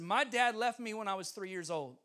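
understated version of a shouted announcement; retold shout. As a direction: call it out with restrained force. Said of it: "I shouted".

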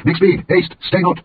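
high, urgent call to hurry; urgent cry. Acted. Jonathan urging the lad to hurry, high urgent call. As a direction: shout the lad onward, pressing. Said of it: "And Jonathan cried out to the lad".

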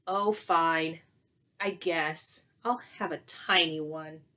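low, reluctant give-in; grudging consent. Acted. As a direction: give in without enthusiasm. Skunk reluctantly accepts a hug.

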